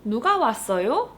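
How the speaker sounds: fast native-speed Korean question. Shown as a demonstration. Teacher answering the quiz quickly. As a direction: ask it quickly. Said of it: "simply say 누가".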